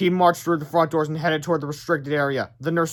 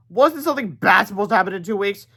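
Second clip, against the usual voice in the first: put-on worried kid voice; 5 semitones higher, 4 dB louder than usual. Harold worried, voiced character.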